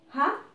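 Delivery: HAPPY pulled apart, hap, pause, py; split into syllables. Shown as a demonstration. Teacher demonstrating syllable count to learners, happy split hap, py. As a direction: repeat happy as two clearly separated syllables. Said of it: "So here we have two syllables".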